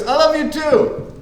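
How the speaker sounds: lightly imitated Trump; hammed-up politician answer. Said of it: "he goes".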